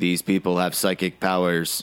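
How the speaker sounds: deadpan, flat, low monotone voiceover narration. Describing a black-and-white film with no dialogue, imitating its narrator: monotone voiceover. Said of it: "It just has really monotone VO. A guy comes on and talks like this".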